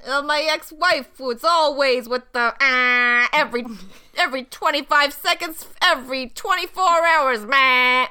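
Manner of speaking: Rodney Dangerfield impression. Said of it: "a really bad Rodney Dangerfield".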